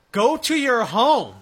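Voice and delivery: loud, high, drawn-out holler; mock-yell it slowly, pitch swooping up; imitated yell. Host re-enacts the ejected player's outburst at home plate, yelling. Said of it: "and yelled".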